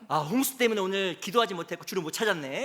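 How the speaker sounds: mock excuse-making. Acts out an excuse-maker.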